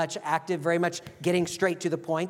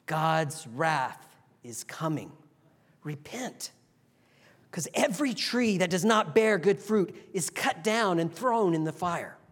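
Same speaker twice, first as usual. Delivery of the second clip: with compassion. Acted. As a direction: plead gently, like a worried friend. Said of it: "John would speak with compassion".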